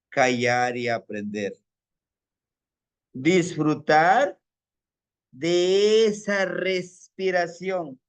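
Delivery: slow, soothing grandfather advice with long pauses; slow calm teaching. Acted. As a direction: draw each word out gently. Abuelo enseña a calmarse. (abuelo sereno que habla despacio)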